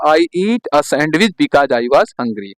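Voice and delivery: each word spaced out slowly for writing; slow dictation. Shown as a demonstration. Teacher reads the answer aloud for students to copy, slowly. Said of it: "सुन लिए ना".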